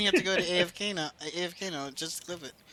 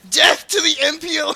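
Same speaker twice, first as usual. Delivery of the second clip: loud, higher rallying shout; battle-cry yell; 5 semitones higher, 9 dB louder than usual. Retold or imitated. Game general saves you in the Congo, battle-cry yell. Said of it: "you just see some guy yell".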